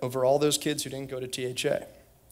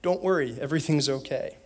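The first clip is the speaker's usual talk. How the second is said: put-on lightly done South African accent; a hint of South African accent. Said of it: "say very loudly in a South African accent".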